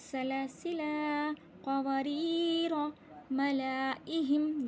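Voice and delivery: slow, measured chant; recitation demo. Shown as a demonstration. Teacher showing where alif is silent, slow recitation. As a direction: draw out the long vowels. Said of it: "इस अलिफ को नहीं पढ़ेंगे".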